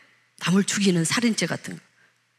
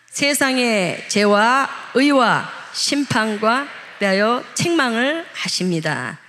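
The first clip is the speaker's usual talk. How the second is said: slow scripture reading; much slower than usual. Shown as a demonstration. Pastor leading the congregation in a slow scripture reading. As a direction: read each word slowly and deliberately. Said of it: "같이 한번 읽어보겠습니다".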